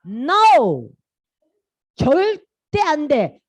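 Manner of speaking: hammed-up royal refusal, high and drawn-out; angry Pharaoh. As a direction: refuse indignantly, stretching the words. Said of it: "바로 왕이 화가 나가지고".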